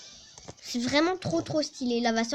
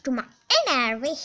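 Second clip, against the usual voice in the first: crié plus fort, vite, en faux colère; gronde-le comme un rival agaçant, rapidement; énervé pour de faux; 2 semitones higher, 5 dB louder, faster than usual. Engueule un Pokémon adverse. (joueur qui crie sur le Pokémon adverse, colère jouée)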